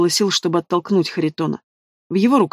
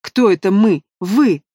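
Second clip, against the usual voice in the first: angry shout; 3 dB louder, slower than usual. A narrator's reading. Heated quarrel, shouting back.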